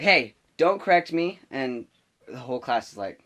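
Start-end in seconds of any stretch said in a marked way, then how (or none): 0.0-1.4 higher, louder imitation of an offended teacher; mock angry snap. Substitute to student who corrected her, angry. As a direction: snap back as a retold scolding.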